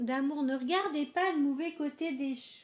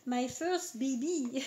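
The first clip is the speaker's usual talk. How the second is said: a hammed-up French take on an English accent; joke English accent; slower than usual. Proud of her new oracle deck, mock English accent. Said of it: "Avec mon super accent anglais".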